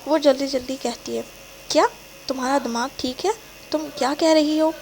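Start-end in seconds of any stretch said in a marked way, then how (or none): 1.7-4.7 a burst of anger at her news; sudden anger. Acted. Boyfriend hearing she is pregnant, angry disbelief. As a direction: snap back in shock and anger. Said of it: "وہ ایک دم غصے سے کہتا ہے".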